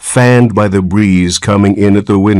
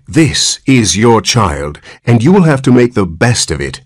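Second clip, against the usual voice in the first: severe; 5 semitones higher than usual. Acted. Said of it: "said the nurse severely".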